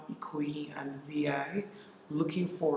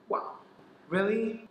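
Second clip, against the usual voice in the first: disbelief; 5 semitones higher than usual. Retold or imitated. Staff member switched off his phone.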